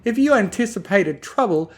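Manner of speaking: high, loud, indignant lady; demanding Rarity. Acted. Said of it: "demanded Rarity".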